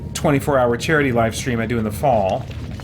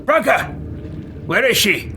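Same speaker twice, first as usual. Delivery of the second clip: high, insistent character voice; urgent in-character demand; 9 semitones higher than usual. Acted. Player's character demanding news of Branka, high urgent voice. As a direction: call out the name, then demand an answer.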